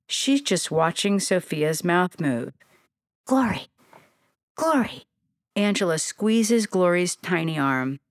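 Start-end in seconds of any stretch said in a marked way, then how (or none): 3.2-5.1 higher calls to snap her attention; calling out. A narrator's reading. Angela calls the staring young bee, raised calling. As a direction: call her name to wake her from a daze.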